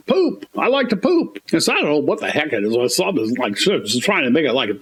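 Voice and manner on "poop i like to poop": high mock chirp of the ad; mocking the commercial. Mocking a TV commercial line, high and chirpy. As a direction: squeal it like a silly ad. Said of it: "here comes a commercial".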